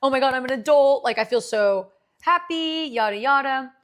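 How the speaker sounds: loud, quick, giddy self-quote; giddy imitation of her younger self; mock excitement. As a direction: gush like a new adult. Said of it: "So I'm like".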